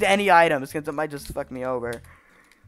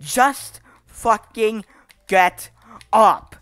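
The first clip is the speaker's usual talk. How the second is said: slow, word by word frustration; exasperated; 3 semitones higher, much slower than usual. Real, not acted. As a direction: force out each word separately. Frustrated coaxing of the avatar.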